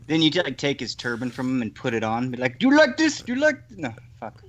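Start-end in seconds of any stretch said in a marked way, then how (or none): 2.6-3.8 very high-pitched teasing voice; mock taunt. Prankster wearing the man's turban, mockingly taunting him.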